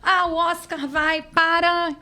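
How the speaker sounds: big, slow award announcement; loud, slow Oscar-night announcer; announcer's excitement. Shown as a demonstration. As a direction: announce the winner with drama. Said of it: "a mesma entonação que o cara tá falando".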